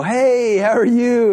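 a hint of a sprightly elderly hiker calling out; cheery old lady.

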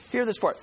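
"hear" lifted high and leaned on; emphatic call to listen. Real, not acted. Pastor to congregation, stressing "hear" with a high push. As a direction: make "hear this part" an order to the room.

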